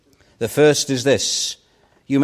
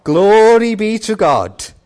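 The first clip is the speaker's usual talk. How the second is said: higher, louder cry of praise to God; a dying man's joyful shout, retold; 6 semitones higher, 5 dB louder, slower than usual. Preacher retelling Billy's dying cry of glory, loud and high. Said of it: "Billy instantly shouted".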